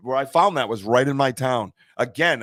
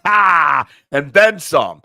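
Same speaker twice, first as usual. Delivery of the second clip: mock echo; 7 dB louder, much slower than usual. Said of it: "echoing friend".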